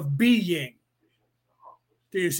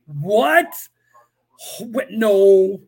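mock disbelief; 7 dB louder, much slower than usual. Feigned shock at Shakespeare claim.

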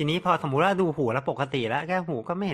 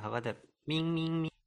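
tuning fork ping; 4 semitones higher, 6 dB quieter than usual. Shown as a demonstration. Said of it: "เคาะดู".

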